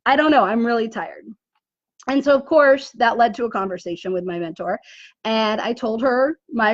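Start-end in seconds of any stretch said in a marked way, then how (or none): 0.1-1.2 mild teary protest, voice catching; half-crying through it; tearful retelling. Retold or imitated. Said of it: "And I'm like".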